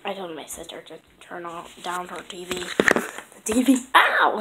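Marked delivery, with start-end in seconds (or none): 2.5-3.8 whispering. Real, not acted. Hushed aside to viewers. 4.0-4.4 sudden yelp. Real, not acted. Hurts herself.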